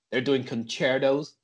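slow, put-on American "concertos"; attempted American accent. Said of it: "trying to do an American accent".

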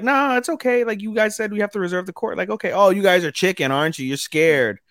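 high-pitched teasing goad; mock taunting. Host acting girls goading rivals into a game, mock taunting. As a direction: play a kid daring someone to back out.

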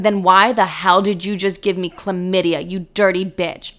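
retold angry accusation; re-enacted indignant comeback; really mad. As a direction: throw the accusation back, mildly heated. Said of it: "made me get really mad".

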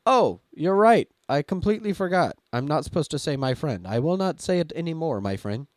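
loud, overeager apologetic assistant; chipper chatbot voice. Retold or imitated. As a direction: apologize brightly like a clueless AI.

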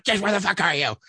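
retold exasperated yell, held back in volume; acted impatient call; yelling for son. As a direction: holler up the stairs, half-strength. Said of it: "me yelling for this motherfucker".

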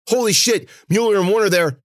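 high, loud, frantic report; urgent cry. A narrator's reading. Cece warning Vic about the attackers, crying out. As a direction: blurt the warning at full voice. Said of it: "she cried".

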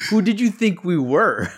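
high laughing mock quote. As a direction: laugh through the line. Laughing through Krampus quote.

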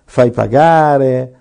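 fai pagare stretched out slowly; slow sarcastic fai pagare; slow mocking emphasis. Shown as a demonstration. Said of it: "Se sei dottore".

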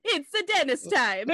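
lightly voiced cartoon Italian plumber through laughter; a laughing go at a game-hero catchphrase; Mario. Dennis as a Mario brother starting play, light Mario voice. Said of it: "supposed to be Mario and Dennis".

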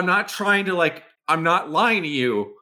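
high, rushed, flustered protest. Real, not acted. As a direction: panicky over a lucky roll. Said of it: "I'm fucking scared".

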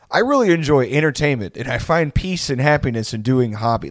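stilted, put-on sincerity; mock small talk. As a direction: imitate someone posing as a normal person. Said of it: "doing that bit where you were like".

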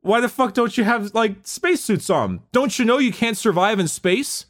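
a hint of a rowdy orc scolding the lads; an orc yelling at his crew, mildly put on. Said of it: "And they're like".

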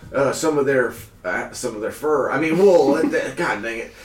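a lightly voiced cheerful farmer.

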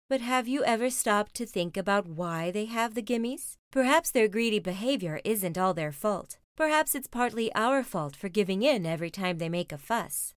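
mildly voiced calm reasoning; calm Mama Bear. Mama reasoning with Papa over tea, calm delivery. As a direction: reason gently without raising the voice. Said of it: "calmly sipping her tea".

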